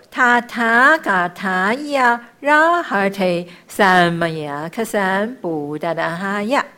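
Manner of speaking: slow, drawn-out sacred syllables; measured chanting, easing off at the end; mantra recitation. Shown as a demonstration. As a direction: chant it with long held vowels.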